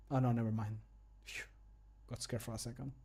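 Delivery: normal talking voice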